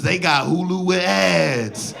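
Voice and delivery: slow, drawn-out snooty gossip; mock gossiping neighbor. Comic mocking neighbors about the family's cheap Hulu, slow snooty sneer. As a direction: sneer it slowly like a nosy neighbor.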